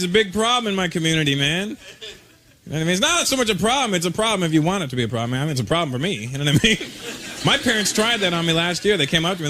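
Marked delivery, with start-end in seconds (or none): none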